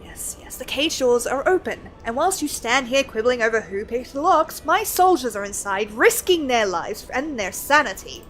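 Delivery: lightly voiced scholarly NPC, measured and earnest; reading NPC lines. Streamer reading a scholar's quest dialogue to chat, lightly voiced. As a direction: read it like a lightly acted learned scholar.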